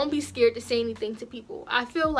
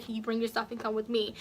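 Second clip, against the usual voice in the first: softer, calm polite version of the request; polite quiet request; 6 dB quieter than usual. Shown as a demonstration. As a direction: ask it softly and kindly. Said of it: "you coulda said".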